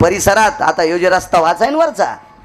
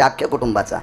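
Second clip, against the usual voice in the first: अख्ख्या कुटुंबाचा repeated much softer and lower, as a grave aside; soft echo; 7 semitones lower, 6 dB quieter than usual. Shown as a demonstration. Preacher repeats अख्ख्या कुटुंबाचा to the audience, softer and lower as a warning.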